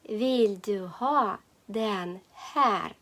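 "Vill du ha den här" slowly, a pause between words. Shown as a demonstration. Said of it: "Повторюємо". («Vill du ha den här» повільно, по словах)

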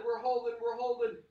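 high, loud pumped-up coaching; hype coach. Acted. Workout coach firing up the class, high and loud. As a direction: fire up the class like a trainer.

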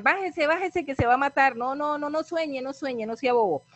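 high-pitched warning cries up the stem; mocking panicked friends calling; friends yelling. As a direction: shout up at him to come down. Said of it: "los amigos le empiezan a gritar".

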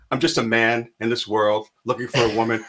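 put-on light English accent, halting. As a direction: play the charming Englishman. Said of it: "I can't do a Hugh Grant".

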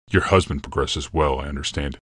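a hint of a brooding emperor, calm and certain; grave Yalmoth. Yalmoth's lines.

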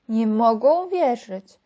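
ordinary delivery, nothing marked

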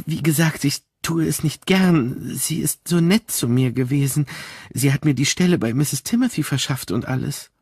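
a worried woman reluctant to tell; upset, troubled maid. Acted. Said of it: "Sie war aufgebracht und bekümmert".

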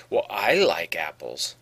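"like" leaned on, slow and low in pitch; contrastive emphasis. Shown as a demonstration. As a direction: draw out "like" in a low insisting voice. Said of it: "there's a different intonation there".

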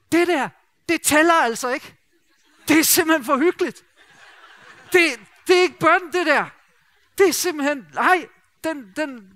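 high, loud mock outrage; exasperated protest. Colleague Søren objecting that his wife's cosy prayer doesn't count, loud and high. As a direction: burst out as if cosiness can't count as prayer. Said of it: "det var som om, han sagde".

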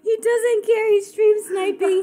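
high-pitched, near-crying outrage; real tearful, squealing disbelief; laughing to tears. Real, not acted. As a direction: wail it through helpless laughter. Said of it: "I'm going to cry".

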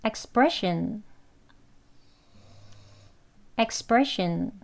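expression with tense sp, soft shin ending; model pronunciation. Shown as a demonstration. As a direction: say expression, stress on pre. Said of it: "두 번 하겠습니다".

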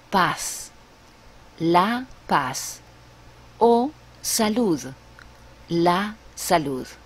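paz with a Spanish s sound, pahs; Spanish pronunciation. Shown as a demonstration. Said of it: "For example".

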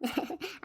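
quiet, short laugh; small appreciative laugh; soft chuckle. Acted. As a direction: chuckle lightly in amusement. Women amused by the trick.

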